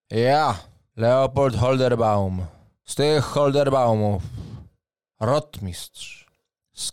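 formal booming knight captain; proud knight. Acted. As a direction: announce yourself with noble pride. GM voices knight Leopold.

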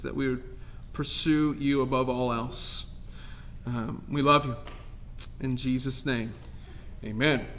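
soft, low prayer voice; hushed reverent prayer; quiet prayer. Acted. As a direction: pray it gently and low. Opening prayer before sermon.

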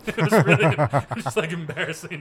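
words broken by loud laughter; laughing. Real, not acted. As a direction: laugh hard while talking. Laughing through the story.

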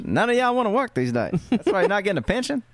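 put-on high, laughing old-timer brag; 1940s old-timer voice. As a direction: play a boastful 1940s retiree. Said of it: "dial up your nineteen forties voice".

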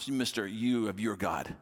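slow, sarcastic mock title; sarcastic jab. Widow mocking Elijah, slow and sarcastic. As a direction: lean into the sarcasm slowly. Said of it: "she goes".

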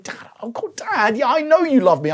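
high-pitched, lightly exasperated assurance; son's protest. Retold or imitated. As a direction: lightly imitate a child who already knows. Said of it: "like the way my son says it".

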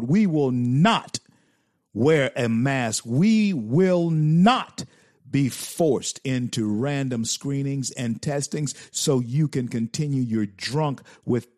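proud recitation of a senator's vow; emphatic quoting. Retold or imitated. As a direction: savour every word of the pledge. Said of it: "Rand Paul said".

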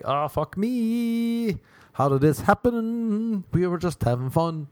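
high, drawn-out mock wail; mock despair. Stranded comedian lamenting the flight home, mock despair. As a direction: wail it slowly in exaggerated dismay. Acts out stranded, broke reaction.

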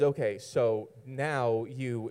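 slow, haughty princess pronouncement. Retold or imitated. Teller quotes his bossy partner, haughty princess. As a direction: grant it slowly, like a princess. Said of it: "this high princess attitude".

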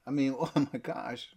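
scornful mock voice, rising on "how stupid"; mocking the disciples. Preacher mocking how dumb the disciples were, scornful. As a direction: sneer at the disciples as if they were fools. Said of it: "to criticize them or to mock them".

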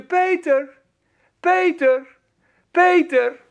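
calling out. Acted. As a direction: call through the door. God calling at the door.

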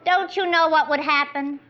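ordinary talk, nothing marked

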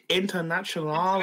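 Internationale said the Italian way, a light imitation of Carragher's ending. Pundit asks how Carragher says it, then lightly imitates the Internationale. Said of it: "how does Carragher say it".

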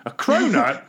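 high, disbelieving cronut, rising in surprise; incredulous. Real, not acted. Noticing a snack on desk.

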